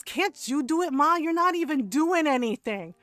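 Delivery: mock-indignant retort to Ma; mouthy teen brother retort. Brother talking back to mom scrubbing the floor, mock indignant. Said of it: "my brother said this dumbass shit".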